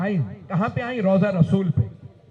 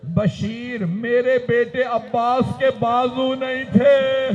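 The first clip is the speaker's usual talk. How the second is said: slow, rising mourning recitation; lamenting preacher; 5 semitones higher, 4 dB louder, slower than usual. Acted. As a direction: build the grief as you preach.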